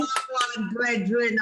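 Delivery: slow, Wagwan brethren with the TH said as D, bredren; patois greeting. Shown as a demonstration. Host teaching Nathan the greeting slowly. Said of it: "And you say".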